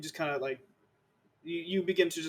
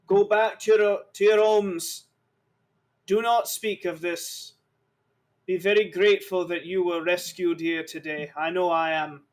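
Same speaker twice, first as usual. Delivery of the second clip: shouting to captives; 5 dB louder than usual. Acted. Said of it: "he shouts to the other captives".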